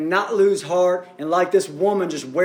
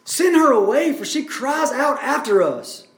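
higher, mildly exasperated demand; annoyed urging; 5 semitones higher than usual. Acted. Disciples urge Jesus to send her away, annoyed. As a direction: urge it insistently, lightly acted. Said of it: "almost get annoyed".

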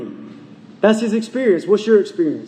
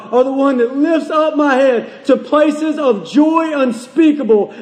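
fervent preaching; 5 semitones higher than usual. Acted. Preacher voicing David's reminder to himself, fervent preaching. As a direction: preach it as a heartfelt declaration.

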